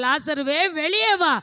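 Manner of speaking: retold summons, rising at the end; Jesus calling out. Jesus calls Lazarus out of the tomb, calling out. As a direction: lightly act out calling someone forth. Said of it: "அங்க போய் கூப்பிட்டார்".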